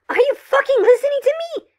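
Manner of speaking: angry snap. Acted. Caller snaps at officer.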